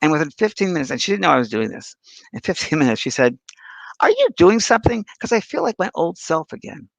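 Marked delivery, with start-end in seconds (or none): 4.0-6.9 quoting her surprise, pitched up; amazed client. Retold or imitated. Client amazed after the healing.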